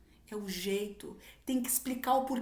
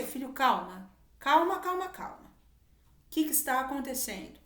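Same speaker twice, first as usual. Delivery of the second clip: firm calming; 3 semitones higher, 3 dB louder than usual. Retold or imitated. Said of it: "Você vai falar firme".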